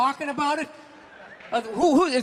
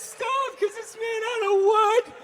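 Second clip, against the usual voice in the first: high, loud whiny mock confession; mock reality show confession; 11 semitones higher, 3 dB louder than usual. Mocking a crying reality show guest, high and whiny. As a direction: ham up a tearful TV confessional.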